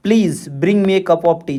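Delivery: "Please bring me a cup of tea" with the pitch falling to TEA; falling intonation. Shown as a demonstration. Teacher shows students a sample sentence, falling intonation. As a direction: read "Please bring me a cup of tea", letting the tune drop at the end. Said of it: "यही है falling intonation".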